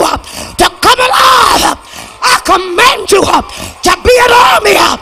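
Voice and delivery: fervent revival whoop, commanding the congregation; full-force preaching. Real, not acted. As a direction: punch each short phrase, gasping "uh" after it. Preaching builds to shouted prophecy.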